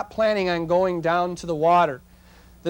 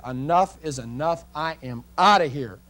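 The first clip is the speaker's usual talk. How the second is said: fed up; 2 semitones lower than usual. Retold or imitated. Kids quit the photo session.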